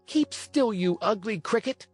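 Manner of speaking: put-on high-pitched, indignant puppet boy; cross outcry. A narrator's reading. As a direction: silence the pest with a high little cry. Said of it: "cried Pinocchio".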